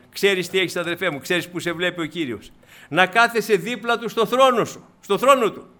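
loud, high pulpit exhortation; emphatic, forceful proclamation; impassioned preaching. Real, not acted. Exhorts congregation at raised force.

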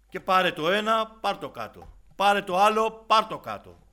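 loud, high, forceful sermon delivery; fiery preaching. Acted. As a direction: hammer the warning at the congregation.

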